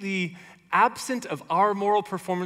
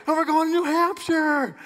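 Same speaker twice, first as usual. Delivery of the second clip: loud, higher rally shout; imitating a pumped-up candidate; Howard Dean rally cry; 11 semitones higher, 3 dB louder than usual. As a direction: fire up the crowd like a candidate. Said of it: "And he goes".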